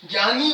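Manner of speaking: ज्ञानी said "gyani", with a hard g and y; common mispronunciation. Retold or imitated. Teacher mimics students' wrong reading, mild imitation. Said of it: "इसको ये ज्ञानी बोलते हैं".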